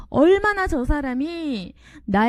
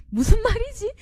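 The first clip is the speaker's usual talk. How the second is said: puzzled question; 10 semitones higher than usual. Acted. Preacher acts confused listener.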